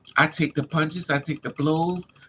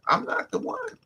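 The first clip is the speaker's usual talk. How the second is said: high, emphatic I'm not the one; defiant; 3 dB quieter than usual. Real, not acted. Telling listeners she doesn't bluff, a defiant high fling. Defiant boast about fighting.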